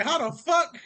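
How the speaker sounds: high-pitched, laughing disbelief; hammed-up stunned reaction; mock shock. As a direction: squeal it in baffled mock outrage. Acted shocked reply to surprise attack.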